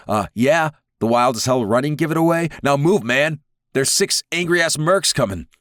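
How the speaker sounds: high, loud, frantic street guy; panicked Wildborn. Acted. Panicked man fleeing mercs.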